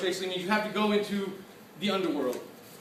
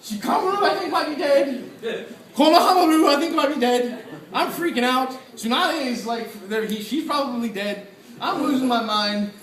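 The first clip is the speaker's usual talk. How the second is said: retold panic; 4 semitones higher, 4 dB louder than usual. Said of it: "'cause I'm like".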